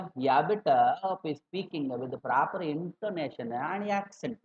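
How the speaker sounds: imitated South Indian English, stretched out slowly; South Indian accent. Shown as a demonstration. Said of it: "लेकिन south में". (दक्षिण भारतीय लहजे की नकल, धीमे खींचकर)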